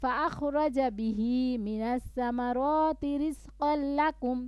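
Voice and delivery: slow melodic chant; full recitation. Shown as a demonstration. Teacher recites the verse whole first. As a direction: recite it in one breath. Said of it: "আবার থামবেন".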